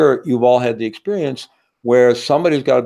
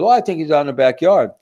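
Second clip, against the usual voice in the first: mom Ellen; 5 semitones higher, faster than usual. Acted. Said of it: "she goes".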